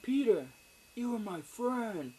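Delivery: high, far-off menacing villain voice, slowed on the last words; Green Goblin voice. Retold or imitated. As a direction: ham up the Goblin greeting his friend, pitched high. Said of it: "And he's like".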